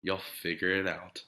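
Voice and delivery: a soft, hushed goodnight; soft whisper. A narrator's reading. Parents whispering goodnight to their sleeping daughter, softly. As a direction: breathe it gently to a sleepy child. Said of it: "They kissed her and whispered".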